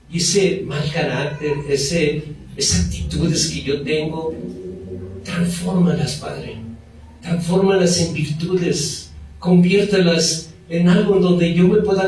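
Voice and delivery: quiet pleading prayer; hushed sincere request; soft prayer. Shown as a demonstration. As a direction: plead softly with the Father. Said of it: "decirle a Dios".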